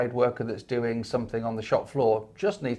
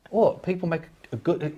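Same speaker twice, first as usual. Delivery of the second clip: mock disbelief; 5 semitones higher than usual. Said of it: "like a".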